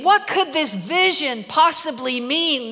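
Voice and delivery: slow, puzzled musing as Peter. Retold or imitated. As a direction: wonder aloud, baffled and slow. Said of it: "That's what Peter says to himself".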